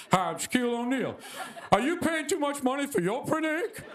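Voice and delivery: lightly voiced TV pitchman; Shaquille O'Neal pitchman. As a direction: sell it like a late-night infomercial. Shaq ad voiced.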